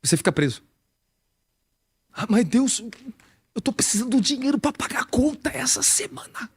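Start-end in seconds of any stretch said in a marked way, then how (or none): 2.1-6.5 high whining plea to God; whiny plea. Acted. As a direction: beg for the bill money, pitched high. Believer begging God for money. (súplica chorosa e aguda)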